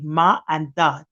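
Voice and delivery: ma and da, slowly; baby sounds. Shown as a demonstration. Showing how babies say mommy and daddy. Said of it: "Like mommy and daddy".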